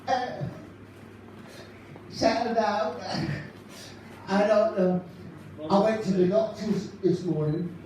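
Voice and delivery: lightly voiced chirpy northern comic telling gags; a light take on a cheery stand-up comic; Ken Goodwin impression. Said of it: "for Ken Goodwin, ladies and gentlemen".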